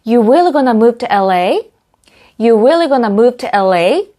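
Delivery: You really gonna call him said slowly, rising at the end; rising question. Shown as a demonstration. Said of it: "하실 수 있죠".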